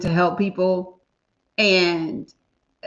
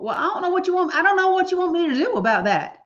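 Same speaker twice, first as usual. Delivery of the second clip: exasperated; 8 semitones higher, faster than usual. Real, not acted. Venting about the Uber rider.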